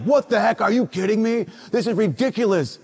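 mock-indignant teen yelping; mock outrage. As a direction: play a boy who thinks he got detention. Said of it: "gotten detention for three weeks".

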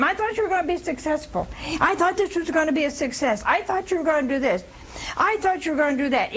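high, fast nagging complaints; nagging spouse. Retold or imitated. Preacher mimicking a spouse who keeps nagging, high and fast. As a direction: rattle off the complaints like a nagging wife. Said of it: "who keeps nagging all the time".

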